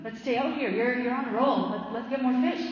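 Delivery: lightly voiced businessman, egging him on; pushy businessman.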